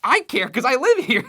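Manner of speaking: laughing protest. Real, not acted. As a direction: laugh through the words.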